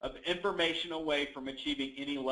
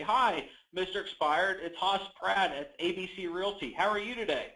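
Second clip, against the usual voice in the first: pattern tone; 3 semitones higher than usual. Shown as a demonstration. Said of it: "You hear the tonality".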